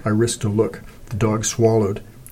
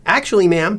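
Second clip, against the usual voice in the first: polite; 10 semitones higher, 4 dB louder than usual. A narrator's reading. Cece politely asks owner.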